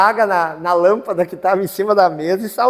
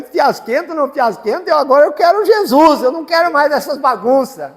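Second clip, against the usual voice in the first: retold loud declaration; 8 semitones higher, 7 dB louder than usual. Father declares his conversion.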